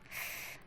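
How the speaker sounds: a short, soft sigh. A narrator's reading. Wang Ji sighs after calling the boy hot, soft. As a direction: let out a quiet sigh after the line. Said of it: "सिसकी लेकर".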